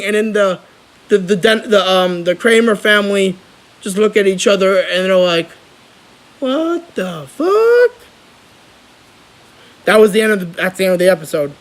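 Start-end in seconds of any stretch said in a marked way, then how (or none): 6.4-8.1 slow, drawn-out shocked higher voice; stunned what the fuck. Retold or imitated. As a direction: let the disbelief stretch out. Family stunned, reacting to twist.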